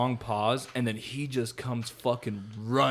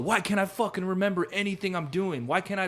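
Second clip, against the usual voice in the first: higher-pitched imitated distress; retold freak-out; 7 semitones higher than usual. Retelling him unable to remember, mock freak-out. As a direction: act out a rattled man, without raising the volume. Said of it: "And he's freaking out".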